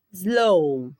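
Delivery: "Slow" with a long final O sound; drawn-out sound demo. Shown as a demonstration. Teacher asking students to listen, drawn-out final O. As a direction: stretch the vowel ending "Slow". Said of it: "Ouçam".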